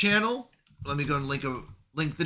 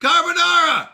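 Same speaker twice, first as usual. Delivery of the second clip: higher, louder theatrical call; escalating echo; 11 semitones higher, 5 dB louder than usual. Pretend. Streamer answering the clip ever bigger, loud theatrical echo. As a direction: belt it back over the top.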